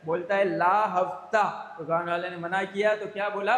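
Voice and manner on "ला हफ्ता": slow, louder goon demand. Acted. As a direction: drag it out, menacing. (धीरे-धीरे धमकाते हुए)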